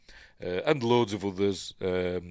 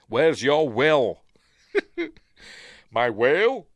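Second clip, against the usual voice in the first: louder, higher mock-Russian film quote; Russian accent; 6 semitones higher, 8 dB louder, slower than usual. Host quoting a film character, in a Russian accent. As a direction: put on a hammy Russian accent. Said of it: "I don't know why I'm doing it in, like, a Russian accent".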